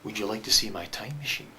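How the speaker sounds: low, grave, confidential question; very serious stranger. Acted. Stranger checks no one is watching, then asks very seriously. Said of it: "which he does again".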